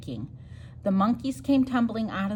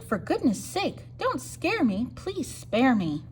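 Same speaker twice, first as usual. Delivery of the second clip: frightened begging; 3 semitones higher than usual. Acted. Elephant begging mouse.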